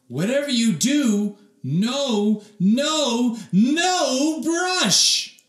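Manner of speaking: loud, high panicked yell; alarmed shouting. Acted. The family yells at Oliver not to brush, loud and high. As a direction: shout him down before he brushes. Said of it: "the three shouted".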